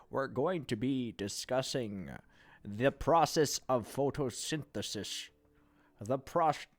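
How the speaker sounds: slow, measured lecturer voice. Pretend. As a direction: speak slowly like a professor. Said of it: "I don't know what voice that is".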